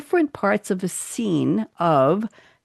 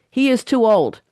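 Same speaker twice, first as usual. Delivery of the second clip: attempted Yoda; 5 semitones higher, 4 dB louder than usual. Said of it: "I can't do this accent".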